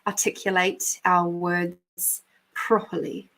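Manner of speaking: slow, carefully articulated delivery; mock-proper elocution lesson, every word measured; prim elocution.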